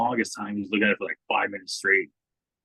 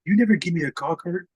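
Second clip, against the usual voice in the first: whiny complaint; 10 semitones higher, 4 dB louder than usual. Retold or imitated. Cinco complaining.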